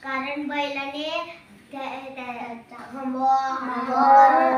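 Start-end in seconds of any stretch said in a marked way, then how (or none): 2.9-3.9 low out the bull's call; imitated bull lowing. Shown as a demonstration. Pupil showing teacher how a bull sounds, imitated lowing. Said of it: "कसा आवाज असतो बैलाचा".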